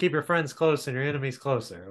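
ordinary talk, nothing marked

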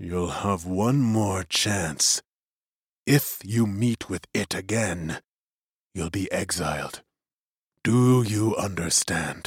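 low, hushed voice. Narrator reading the magician's words to Till after a pause, lowered voice. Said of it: "He paused and lowered his voice".

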